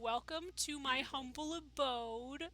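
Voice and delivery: slow, drawn-out mock villain greeting; lightly voiced smug host; villain welcome. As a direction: roll it out like a gracious villain.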